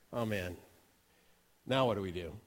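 low, soft retold aside; daunted undertone. Speaker and Nate unsure what to do inside, daunted undertone. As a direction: drop low and quiet, at a loss.

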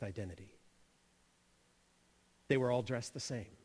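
low, soft solemn telling with long pauses; grave, hushed appeal. Real, not acted. Speaker tells listeners of women lined up, grave and hushed. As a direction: drop low and quiet, let it sink in.

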